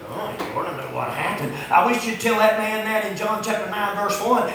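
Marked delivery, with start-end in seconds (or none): 0.1-1.5 mock questioner. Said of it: "And sometimes people go".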